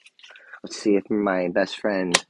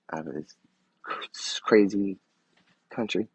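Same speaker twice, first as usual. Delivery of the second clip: whisper. Real, not acted. Aside about the country.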